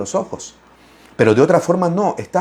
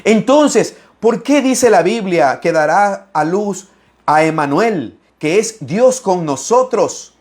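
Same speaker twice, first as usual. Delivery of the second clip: challenging critic; 4 semitones higher, slower than usual. Retold or imitated. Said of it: "dicen algunos por ahí".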